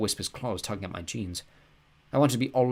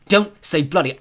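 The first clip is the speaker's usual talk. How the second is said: father shouting, much higher and louder; angry father; 8 semitones higher, 12 dB louder than usual. A narrator's reading. Father ordering his son to school, shouting. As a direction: bark orders at your son. Dad scolds in fight.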